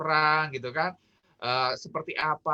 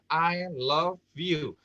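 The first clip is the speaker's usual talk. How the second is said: drawn-out words; much slower than usual. Shown as a demonstration. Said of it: "sama-sama bilang".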